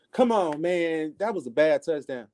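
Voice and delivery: mock outburst at a bad touchdown; fan yelling at TV. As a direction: react to the game like a fan on the couch. Yelling at game on TV.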